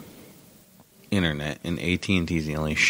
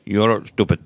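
mock condescending; 3 dB louder than usual. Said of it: "But they say it like this".

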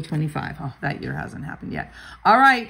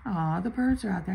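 usual speaking voice

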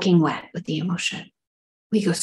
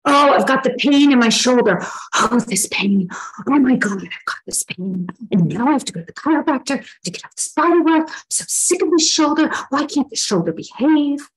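whiny complaining; 6 semitones higher than usual. Retold or imitated. Complaining about shoulder pain.

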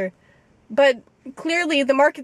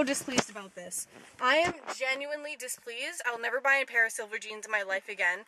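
quiet; 10 dB quieter than usual. Pretend. Mock-calm fuming after outburst.

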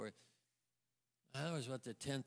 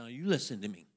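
loud, laughing bossy command; half-laughing scold, pushing hard; laughing mock order; 6 semitones higher, 12 dB louder than usual. Wife scolding husband by phone, loud and laughing.

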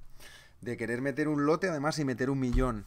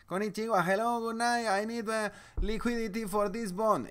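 put-on much higher, louder caricature Japanese accent speaking English; hammed-up Japanese trader speaking broken English; mock Japanese English accent; 10 semitones higher, 4 dB louder than usual. Japanese trader calling at 2am, mock Japanese accent. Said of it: "con un acento inglés que ni les entiendes".

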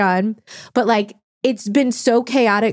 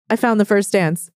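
put-on Italian accent; 3 semitones lower than usual. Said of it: "say that in Italian accent".

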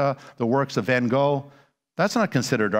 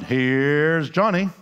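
slow, drawn-out announcer call, a touch louder; talk show announcer; 3 dB louder, much slower than usual. Retold or imitated. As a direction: stretch it like a late-night host intro. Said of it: "Nighttime entertainment used to be about".

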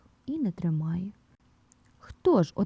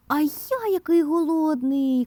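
high-pitched little mouse voice; hungry mouse; 8 semitones higher than usual. A narrator's reading. Mouse Vert chiming in about hunger, high mouse voice. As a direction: pipe it up high, wanting food. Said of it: "каже Верть".

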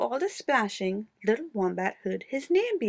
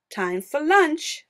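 slow calling voice; 5 semitones higher, 6 dB louder, slower than usual. A narrator's reading. Platypus calls out.

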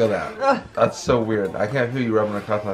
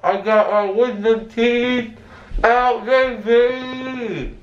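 loopy excited; 7 semitones higher, slower than usual. Real, not acted. Drugged patient cheering after surgery.

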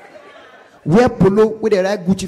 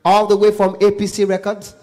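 spaced-out MC introduction; stage announcer. Shown as a demonstration. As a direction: announce the star with pauses for suspense. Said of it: "how you go feel if you just say".

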